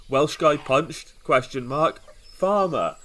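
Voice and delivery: slow "Welsh guy punched?", then "Farmer" set apart; repunctuated note reading. Shown as a demonstration. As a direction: lift "punched" as a question, pause, land "Farmer" alone. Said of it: "you've Lionel Hutz, that is".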